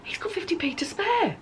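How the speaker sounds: hushed, whispered confiding; whispered aside. Real, not acted. Aside about David's leftover money.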